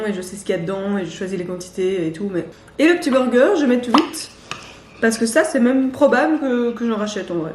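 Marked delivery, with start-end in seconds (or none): 2.8-7.5 talking with mouth full; chewing while talking. Real, not acted. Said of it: "arrêter de parler la bouche pleine".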